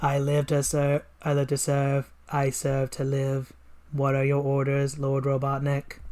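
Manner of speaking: flat, monotone machine; robot voice. Acted. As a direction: speak like an obedient robot. Robot henchman answers.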